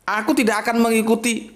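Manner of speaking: a firm, resolute declaration; stern, firm statement; firm and decisive. Shown as a demonstration. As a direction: say it plainly and decisively, no sway. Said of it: "surat Al-Kafirun ini mesti tegas".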